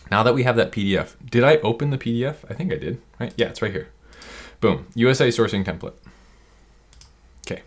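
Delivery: fast, pumped-up announcer energy; sports announcer. Real, not acted. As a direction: call it like a hyped commentator. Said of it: "Talking like a sports announcer over here".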